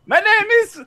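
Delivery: high cartoon Italian accent; high-pitched mock Italian. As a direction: keep the goofy Italian plumber voice going. Continuing Mario voice.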